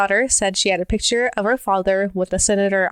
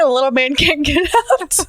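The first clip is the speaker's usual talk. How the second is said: imitating the toddler; 6 semitones higher than usual. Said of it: "I was like".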